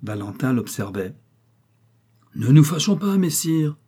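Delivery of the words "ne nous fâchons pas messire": high, louder, laughing appeasement; mock soothing with a laugh. A narrator's reading. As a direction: laugh it off mockingly. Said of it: "poursuivit-il en riant".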